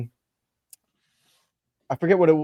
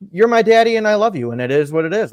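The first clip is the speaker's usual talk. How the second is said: put-on higher, louder little-girl voice; 7 semitones higher, 6 dB louder, faster than usual. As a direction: sing it out like a happy toddler. Tara voiced to her dad.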